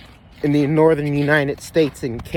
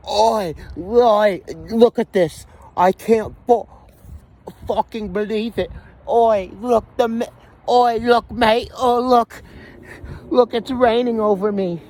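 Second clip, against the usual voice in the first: high-pitched mock British bloke exclaiming; bad British accent; 6 semitones higher than usual. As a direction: imitate an amazed Brit with a poor British accent. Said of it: "I can't do a very good British accent".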